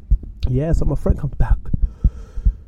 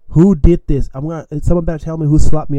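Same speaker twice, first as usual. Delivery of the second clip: mock-angry, raised voice; lightly acted outrage; retold angry demand; 3 semitones higher, 6 dB louder than usual. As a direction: imitate a man demanding a culprit, louder at the start. Acting the enraged machete man.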